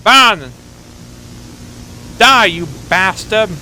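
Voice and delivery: hammed-up angry yell; mock battle cry. Player voicing the pig attacking the wolf, mock yell. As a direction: shout it like a charge.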